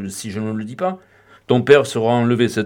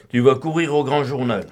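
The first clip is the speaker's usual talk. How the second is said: ordinary delivery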